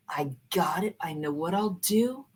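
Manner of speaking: hushed whisper to herself; whispered realization. Retold or imitated. Teacher whispering to herself as the plan comes. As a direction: whisper the idea as it dawns. Sudden idea, thinking to herself.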